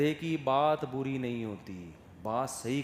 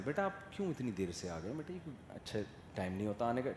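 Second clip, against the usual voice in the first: soft, quick, kind scolding; a polite father chiding softly; gentle father; 4 semitones lower, 9 dB quieter, faster than usual. Retold or imitated. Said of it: "باپ ایسے بول،". (نرمی سے ڈانٹتا شریف باپ)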